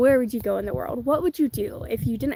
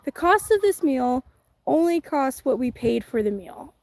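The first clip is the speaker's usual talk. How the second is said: slower, each word set apart; slow, deliberate. Retold or imitated. Vlogger repeating her botched sentence slowly and deliberately. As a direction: spell out the line carefully, word by word. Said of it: "And I was like".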